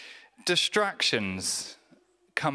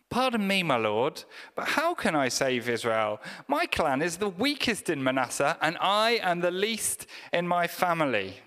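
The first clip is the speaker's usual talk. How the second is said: polite British Gideon; 4 semitones higher than usual. Pretend. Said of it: "in the British way".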